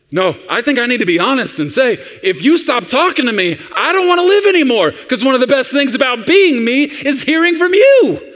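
put-on high, loud, melodramatic kid plea; hammed-up childish desperation; desperate child. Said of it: "And the child says".

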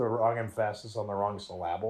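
emphasis said as em-PHA-sis, syllable as syl-LA-ble; stress on the wrong syllables. Shown as a demonstration. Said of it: "it's like that old joke".

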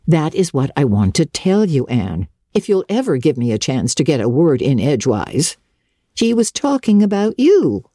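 put-on a no-nonsense older woman cutting in; stern Marilla. Marilla answers Anne, lower voice.

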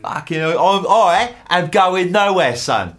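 ranty voice. Pretend. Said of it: "I'll save that ranty voice".

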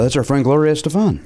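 put-on "Estefan" with the final A accented. Host name-drops a singer friend, "Estefan" accented on its last syllable. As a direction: stress the end of "Estefan". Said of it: "an accent over the A at the end".

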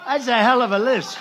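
emphatic. Real, not acted. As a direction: hit hell hard and loud. Repeat, louder, higher.

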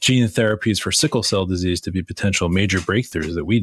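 sweet southern shade, lightly voiced; a hint of the church lady; church lady impression. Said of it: "church lady impression here".

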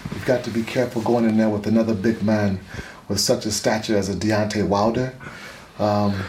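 lightly voiced boxing champion giving measured advice; a hint of a veteran heavyweight's voice; Lennox Lewis. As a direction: counsel a younger fighter in a lightly put-on champion's voice. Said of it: "in the impression of Lennox Lewis".

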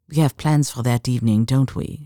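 put-on lightly French-accented, conspiratorial murmur; subtle French accent. Woman addressing the queen's jewels, subtle French accent. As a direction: confide it with a hint of French. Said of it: "softened by a subtle French accent".

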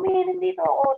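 high call across the house; calling out to mom. Retold or imitated. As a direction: call out to her, trying to be noticed. Calling out to unhearing mother.

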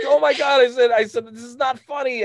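high-pitched mock outrage, loud at first; indignant upset kid. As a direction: imitate a distressed child scolding mom. Retold upset child protesting to mother.

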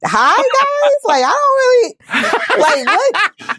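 cracking up while objecting; laughing too hard to finish; laughing disbelief. Real, not acted. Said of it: "You and me both".

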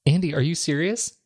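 talking while flossing teeth. Real, not acted. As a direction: speak around the floss. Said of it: "it sounds like you're flossing".

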